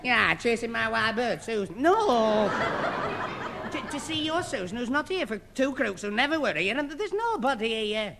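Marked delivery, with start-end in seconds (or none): 1.8-8.2 laughing. Acted. Laughing at the wasted trip.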